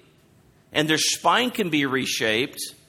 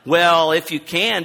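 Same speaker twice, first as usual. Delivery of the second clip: slow, loud hedging "well"; mock a doubtful concession, drawn out; how not to say it; 3 semitones higher, 6 dB louder, slower than usual. Shown as a demonstration. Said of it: "It's not like".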